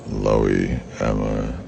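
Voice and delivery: ordinary talk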